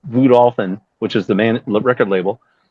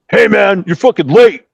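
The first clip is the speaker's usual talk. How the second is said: loud, higher scolding holler; retold call-out; 6 semitones higher, 6 dB louder than usual. Bobby Blotzer greeting the late bassist, hollering. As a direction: imitate a bandmate hollering across the room. Bandmate calls out at late arrival.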